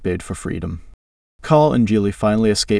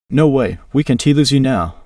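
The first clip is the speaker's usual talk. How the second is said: higher and louder, pleading; desperate shout; 5 semitones higher, 5 dB louder than usual. A narrator's reading. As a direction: cry out not to lose him. Friend collapsing, desperate plea.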